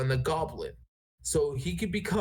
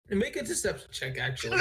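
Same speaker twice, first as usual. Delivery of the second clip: laughing. Real, not acted. Game master amused by bad impression.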